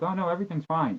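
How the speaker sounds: light, high dismissive voice; breezy reassurance. Retold or imitated. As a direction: brush it off like it's nothing. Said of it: "and they're like".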